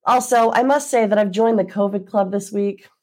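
congested, blocked-nose voice; talking through a stuffy nose. Real, not acted. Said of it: "I apologize for my congested voice".

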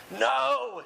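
hammed-up wailing protest; groaning. A narrator's reading. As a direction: draw it out as a pained groan. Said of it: "he groaned".

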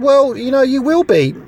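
a mild imitation of a small squeaky voice; hint of a squeaky old master; squeaky little voice. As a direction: tease him with a lightly squeaky impression. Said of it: "in your squeaky little voice".

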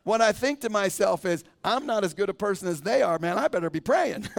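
amused at yourself; sheepish real laughter; laughing. Real, not acted. Still laughing, self-deprecating.

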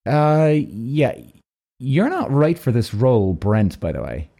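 lightly voiced suspicious agent; hint of an official sizing someone up; deliberate, doubting, with long pauses; Secret Service type. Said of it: "like, the fucking Secret Service F B I".

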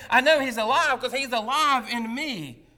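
loud, swelling declaration; rising chorus. Retold or imitated. People standing one after another, proclaiming it loud. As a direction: proclaim it like the whole crowd joins. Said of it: "keep standing up saying".

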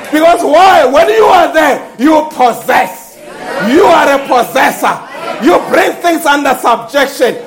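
emphatic, driving sermon delivery; full-force preaching. Acted. Preacher rousing the church about delegated authority, emphatic preaching. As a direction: preach it out to the whole congregation.

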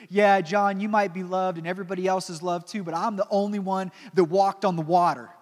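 loud, boastful one-upping; acted-out proud disciple; bragging. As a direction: boast over a rival, punching it out. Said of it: "he would have been bragging about it too".

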